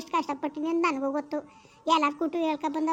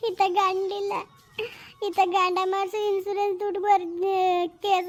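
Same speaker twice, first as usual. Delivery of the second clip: tearful lament; 3 semitones higher than usual. Acted. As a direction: plead your misery, close to tears. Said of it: "ಸುಮ್ನಿರವ, ಅಳ್ಬೇಡ". (ಕಣ್ಣೀರು ತುಂಬಿದ ಗೋಳು)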